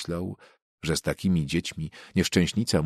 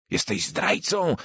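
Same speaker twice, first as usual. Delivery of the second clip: mock yell; 7 semitones higher, slower than usual. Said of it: "wrzasnął mały".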